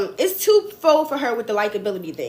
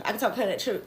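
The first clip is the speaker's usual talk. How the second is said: Florida Southern accent; 3 semitones lower, 8 dB quieter, faster than usual. Shown as a demonstration. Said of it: "I spent the summers in Florida with my dad. So I can talk like this too".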